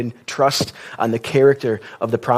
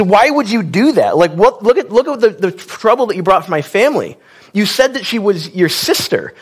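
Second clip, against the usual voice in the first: higher, mock-scolding Pharaoh voice; 5 semitones higher than usual. Pharaoh scolds Abram for lying about his wife, mock-scolding. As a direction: play Pharaoh scolding, half-acted. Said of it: "scolds him and says".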